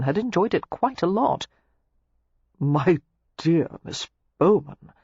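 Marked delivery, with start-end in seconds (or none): 2.6-4.9 slow, savouring flirtation; flirtatious murmur. A narrator's reading. Clandrindon wooing Miss Bowman after the kiss, flirtatious murmur. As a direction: draw out each word amorously. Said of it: "Clandrindon murmured flirtatiously".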